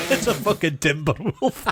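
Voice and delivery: laughing through the line. Real, not acted. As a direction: giggle out the punchline. Laughing during retelling.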